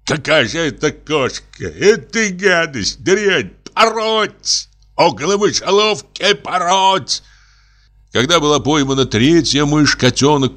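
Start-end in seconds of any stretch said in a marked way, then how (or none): 0.1-7.2 high-pitched rant rising to a cry; indignant, high acted tirade; outraged yelling. A narrator's reading. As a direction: rail at the useless animal, pitching it up. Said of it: "заорал Пётр Демьяныч".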